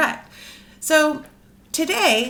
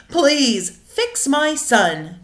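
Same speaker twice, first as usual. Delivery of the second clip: demanding father; much slower than usual. Acted. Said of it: "demanded Crispin's father".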